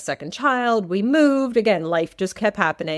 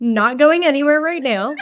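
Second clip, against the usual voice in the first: amused, laughing answer; 5 semitones higher, 5 dB louder than usual. Real, not acted. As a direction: laugh while you reply. Guest laughs at the joke.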